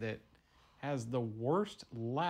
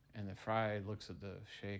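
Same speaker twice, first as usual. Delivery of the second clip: ordinary talk, nothing marked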